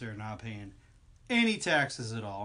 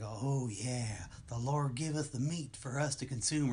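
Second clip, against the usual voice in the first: southern preacher; slower than usual. Retold or imitated. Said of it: "and he's like".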